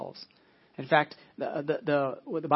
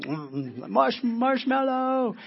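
put-on high, slow, drawn-out kid voice savoring marshmallow; greedy kid; 8 semitones higher, 5 dB louder, much slower than usual. Pastor mimics a four-year-old craving the marshmallow, high and drawn out. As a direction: stretch out the word like a child who can't wait.

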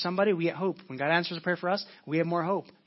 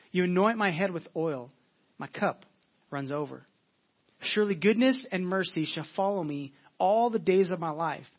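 scripture reading. Acted. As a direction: let each line of the psalm land, with pauses. Reads Psalm 23 aloud.

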